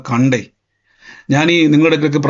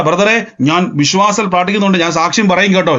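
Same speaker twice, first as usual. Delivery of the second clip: brisk, assured declaration; assured faith; 3 semitones higher than usual. Shown as a demonstration. Believer telling the brother they will testify, brisk and assured. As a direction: say it quickly, as settled fact. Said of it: "ഇങ്ങനെ പറ".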